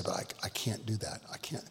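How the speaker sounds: drops to a whisper, almost no voice; hushed refusal. Retold or imitated. Pastor telling the bride he can't allow her vows, whispered. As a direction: breathe out the refusal, cornered.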